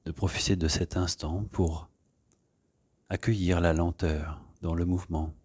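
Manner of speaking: calm, soft guiding voice with long pauses; unhurried yoga-class settling-in voice; guided meditation. Real, not acted. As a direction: ease them gently into stillness. Leads an opening meditation.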